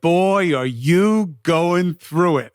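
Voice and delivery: drawn-out, knowing mock of the speed walker; slow imitation of the lady. Retelling the lady's words a second time, slowed and lightly mimicked. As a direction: stretch each word like a sympathetic stranger. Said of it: "and she was like".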